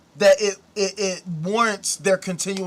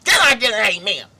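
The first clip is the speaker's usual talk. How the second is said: booming church call-and-response, louder; mock preacher call; 5 dB louder, faster than usual. Shown as a demonstration. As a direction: rouse the congregation like a preacher. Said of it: "talk with a cadence like this".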